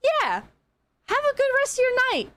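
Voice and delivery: high, fast, sugary customer-service voice; overly sweet goodbye. Retold or imitated. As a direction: chirp the goodbye up high and quick. Cheerful goodbye at checkout.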